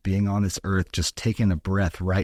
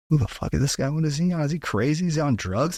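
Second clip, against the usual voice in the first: baffled stranger; 8 semitones higher, faster than usual. Retold or imitated. Gas station worker reacting to his odd answer, baffled and high-pitched. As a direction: voice lifted much higher, incredulous questions. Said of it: "they'll be like".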